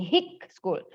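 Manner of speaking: "hick school" with short i; wrong pronunciation. Shown as a demonstration. Teacher repeating the misreading, wrong pronunciation. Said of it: "tanpa H".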